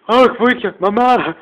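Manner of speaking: high, loud wail for mum; mock-terrified plea to mum; panicked cry for help. Scared kid calling his mum for help, in a high loud wail.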